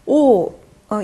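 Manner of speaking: 오, 어 spoken with rounded lips while aiming for e inside; rounded eu sound. Shown as a demonstration. Teacher demonstrates the French eu vowel, 오 어 with rounded lips. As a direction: hold an o mouth and say 어 inside it. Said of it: "입 모양은 오인데 안에서 에 발음을".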